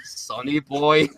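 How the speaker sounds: slow, dull deadpan name; slow deadpan mock of the wrestler; deadpan Sonny Boy. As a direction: drag out the name flatly. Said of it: "deadpan answer".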